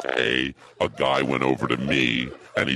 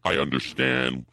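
slow, careful words; slow enunciation. Acted. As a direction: enunciate slowly as told to. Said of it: "slow down and enunciate".

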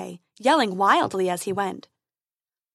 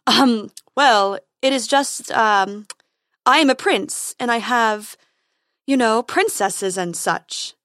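nervous; 6 dB louder, slower than usual. Acted. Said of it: "cleared his throat awkwardly".

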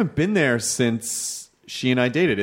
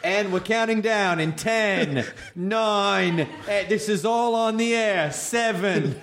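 counting down through laughter; laughing countdown; 5 semitones higher, much slower than usual. Real, not acted. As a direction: count it off while cracking up. Mock countdown while laughing.

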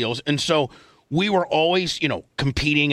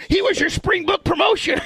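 teasing. Real, not acted.

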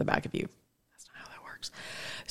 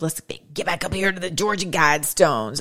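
whisper. Real, not acted. Aside while scrolling.

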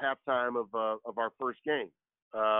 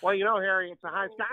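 Steve Stone impression; 7 semitones higher than usual. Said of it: "How does that happen, Steve Stone".

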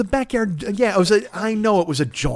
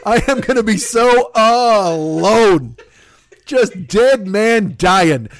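mock despair; 3 semitones higher, 3 dB louder, slower than usual.

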